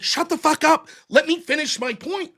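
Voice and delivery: half-hearted yell to cut someone off; mock yell. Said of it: "I'm gonna fucking yell".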